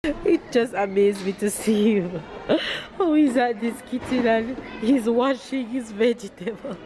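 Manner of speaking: laughing through real tears, voice rising; half laughing, half crying as she watches her son; moved to tears while laughing; teary laughing. Real, not acted. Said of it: "Look at me bawling".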